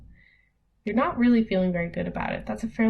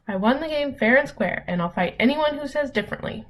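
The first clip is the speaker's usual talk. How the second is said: higher-pitched, defiant read with a touch of anger; mildly angry; 5 semitones higher than usual. Shown as a demonstration. Teacher reading an example sentence about fighting, mildly angry. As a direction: read it like a mild challenge. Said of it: "I kind of read it in a certain voice".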